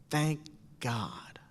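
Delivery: God dropped to a whisper; hushed relief. Retold or imitated. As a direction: breathe it out like a secret. Teachers relieved, hushed reply.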